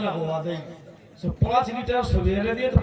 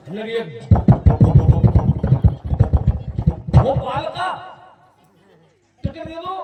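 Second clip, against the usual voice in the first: stammering request; 4 dB louder than usual. Retold or imitated. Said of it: "मेरी नकल कर रहा है ये".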